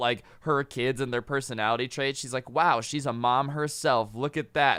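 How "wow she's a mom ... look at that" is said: ordinary talk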